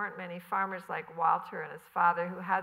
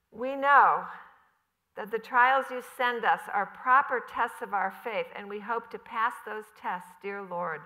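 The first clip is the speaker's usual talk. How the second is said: a lightly voiced mother praying, pleading; earnest prayer; 3 semitones higher, 7 dB louder than usual. Mother prays over her daughter for rain, earnest and pleading. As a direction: pray to the Lord in earnest, a touch raised.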